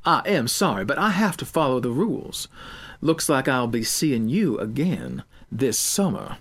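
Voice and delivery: coldly lecturing the student; cold teacher. Acted. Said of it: "She coldly continued".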